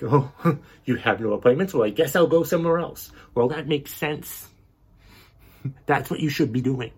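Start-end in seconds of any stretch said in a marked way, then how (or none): 0.0-3.1 mocking the angry mother. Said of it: "when you're like".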